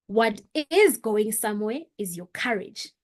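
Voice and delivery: normal talking voice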